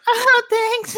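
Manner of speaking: very high, drawn-out squeaky date; exaggerated falsetto phone greeting; put-on date voice. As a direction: play the date in a silly high voice. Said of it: "She was putting on a voice".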